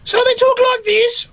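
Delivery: very high squeaky Black Country character voice; Black Country accent. Shown as a demonstration. Actor demonstrating one of two puppet characters, high Black Country voice. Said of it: "both Big and Small are from the Black Country".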